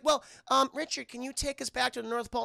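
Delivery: lightly voiced character request; Olive. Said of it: "so she's like".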